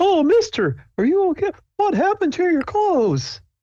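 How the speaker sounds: very high, sing-song, swooping camp counselor voice. Voicing a camp counselor running over to check on someone: camp counselor character voice. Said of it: "he comes running over, and he's like".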